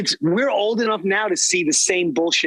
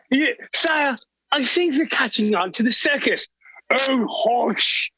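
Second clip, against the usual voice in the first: scheming English lord voice; posh British villain plotting; English accent; 3 semitones higher than usual. Acted. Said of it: "I heard an English accent".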